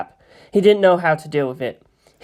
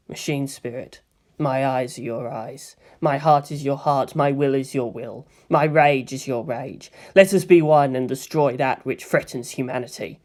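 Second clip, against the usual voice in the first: murmured invocation; 2 semitones lower than usual. Acted. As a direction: chant to the machine inside. Pilot's ritual prayer.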